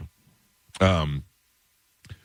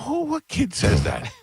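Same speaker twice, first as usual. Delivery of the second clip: high, drawn-out mock incredulity; retold disbelief. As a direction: react aghast, retelling it. Retelling his incredulous reply.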